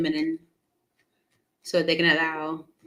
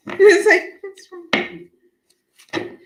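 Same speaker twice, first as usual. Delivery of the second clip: laughing disbelief; 13 semitones higher, 7 dB louder, much slower than usual. Real, not acted. Still talking about the weird cat.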